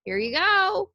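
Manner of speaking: mock fanfare. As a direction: present it like a sarcastic gift. Life granting the wish, mocking.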